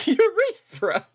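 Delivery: high, slow, drawn-out silly cry; mock eureka. Streamer parodying the detective's eureka. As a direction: ham up a fake discovery shout.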